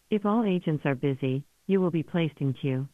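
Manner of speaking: ordinary delivery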